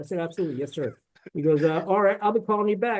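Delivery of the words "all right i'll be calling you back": put-on, imitated Southern drawl. Retelling what a caller said on the phone, imitating his Southern drawl. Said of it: "He's got the Southern drawl".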